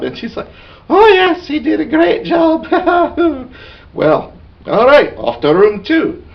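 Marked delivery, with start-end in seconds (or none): 0.9-2.7 high mock swooning girl; falsetto girl voice. Bouncer asks the elven girl, she gushes in falsetto. 2.7-3.4 falsetto giggle. Retold or imitated. Girl's giggle after answer.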